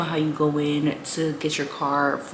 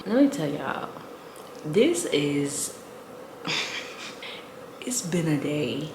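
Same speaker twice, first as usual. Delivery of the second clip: talking around a retainer; slightly lisped retainer speech; wearing a retainer. Real, not acted. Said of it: "I have my retainers in".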